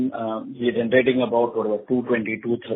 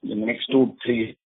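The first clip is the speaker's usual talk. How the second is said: muffled. Real, not acted. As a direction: voice muffled on the phone line. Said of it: "you're sounding muffled in between".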